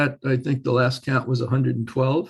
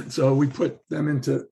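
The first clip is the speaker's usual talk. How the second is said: hoarse, losing his voice. Real, not acted. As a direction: voice giving out, throat catching. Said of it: "sorry, losing my voice here".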